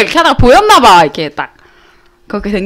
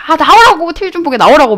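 annoyed mom; 6 semitones higher than usual. Retold or imitated. Retold mom annoyed at blocked TV.

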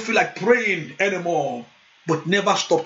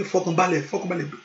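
soft, soothing Yoruba comfort; calm them down gently; ìtùnú jẹ́jẹ́; gentle reassurance; 4 dB quieter, faster than usual. Retold or imitated. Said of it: "he encourage me".

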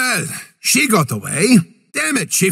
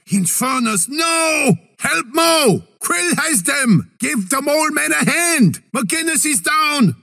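raised, higher urgent calls; urgent battlefield warning; battle callout; 6 semitones higher than usual. Acted. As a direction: shout the alert to the team. Calling out alerts in battle.

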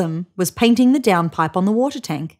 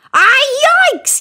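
startled loud yelp; high, loud "yikes" yell; 7 dB louder than usual. A narrator's reading. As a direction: cry out in alarm as you crash into someone. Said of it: "yelled Emu".

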